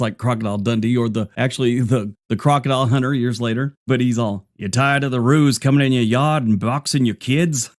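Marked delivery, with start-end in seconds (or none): 4.6-7.7 a hint of a hammed-up Aussie commercial; ad pitchman. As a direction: sell it like a cheesy late-night ad. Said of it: "a skit on S C T V".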